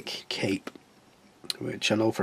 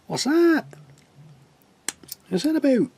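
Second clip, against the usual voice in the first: much higher, squeaky puzzled voice; squeaky surprise; 3 dB louder than usual. Pretend. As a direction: squeak it out like a little toy.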